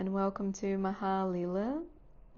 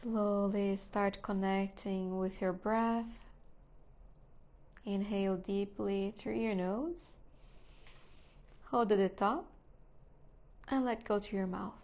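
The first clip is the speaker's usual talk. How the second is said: calm, unhurried guidance with long pauses; guided meditation; 4 dB quieter than usual. Real, not acted. Teacher settling students into seat, breath and body, guided meditation voice. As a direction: ease them gently into stillness, phrase by phrase.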